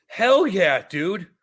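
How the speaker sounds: high, loud, drawn-out cheer; real burst of enthusiasm; excited approval. Real, not acted. Friend cheering on a child invited to golf, excited.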